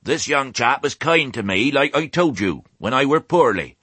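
high, rustic speech to the flock. A narrator's reading. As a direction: address the crowd as a country old ewe. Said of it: "Raising her voice".

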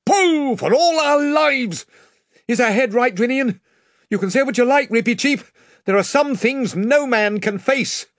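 high, pressing command voice; urgent young king. A narrator's reading. Caspian urges the crew and answers the mouse, high and urgent. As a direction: drive the crew on, afraid but firm.

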